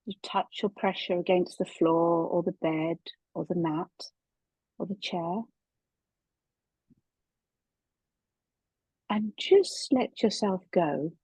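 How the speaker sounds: unhurried body scan guidance with long pauses; calm meditation teacher, measured and spacious; guided meditation. Real, not acted. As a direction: ease them gently into relaxation, leaving long silences.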